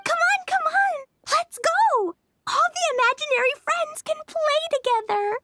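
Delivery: put-on high, eager child's call; rally everyone to come and play; excited urging. Child urging imaginary friends to play together, excited.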